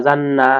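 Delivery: "জান না" with a held nasal n; nasalised, lingering n between "জান" and "না"; ghunna. Shown as a demonstration. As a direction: hum the doubled n in "জান না". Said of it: "এখানেও গুণনা করে পড়তে হবে".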